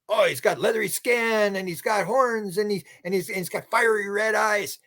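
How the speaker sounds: high, hushed voice of a spooked preacher; awed description. Retold or imitated. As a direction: describe the horns in awe.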